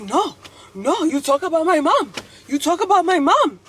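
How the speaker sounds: high, loud, heated mock yelling; imitated angry student. Student refusing the professor's apology, acted-out angry shouting. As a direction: fire back in mock outrage. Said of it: "And the guy's like".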